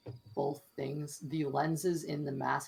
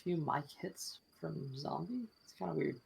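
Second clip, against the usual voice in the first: popping mic hits; crackly usb mic; 3 dB louder, faster than usual. Real, not acted. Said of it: "your mic is popping pretty bad".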